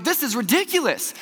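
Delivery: grumbling about a failed test; mock annoyed. Student retells being upset at a bombed test, mock annoyed. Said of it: "actually mad".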